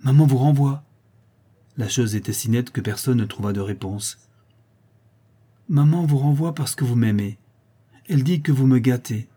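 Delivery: put-on loud, high, indignant little boy; angry child. Little count telling the guest his mother sends her away, angry. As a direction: fire it out as a loud childish accusation.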